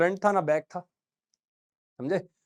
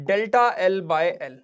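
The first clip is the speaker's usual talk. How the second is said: slow dictation; 4 dB louder, much slower than usual. Shown as a demonstration. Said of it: "एक strain हम पढ़े".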